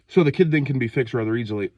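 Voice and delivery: short of breath and a bit sick; winded, catching breath between words. Real, not acted. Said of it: "sorry if it seems like I'm kinda out of breath".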